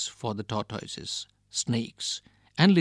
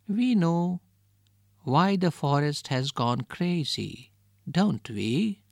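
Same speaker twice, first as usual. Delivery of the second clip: squeaky little voice; 3 semitones higher, slower than usual. Acted. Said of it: "a squeaky little voice piped up".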